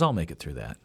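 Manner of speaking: dad's low quiet resolve; calm confidence. Retold or imitated. Dad calmly decides.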